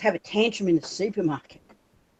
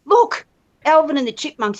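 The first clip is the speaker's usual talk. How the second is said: excited pointing; 4 semitones higher than usual. Retold or imitated. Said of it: "I said".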